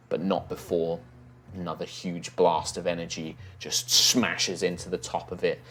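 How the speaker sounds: game master narration of a spectacle; measured, vivid storytelling; dramatic scene setting. Acted. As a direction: narrate the blast and collapse with weight. Game master narrates tower's fall.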